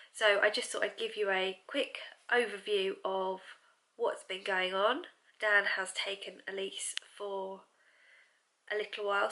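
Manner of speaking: soft unvoiced whisper. Real, not acted. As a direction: hush it, barely voiced. Quiet while baby away.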